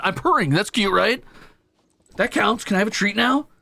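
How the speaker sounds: high, loud mock cat voice; imitating the cat. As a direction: voice the cat as a smug little kid. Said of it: "He's like".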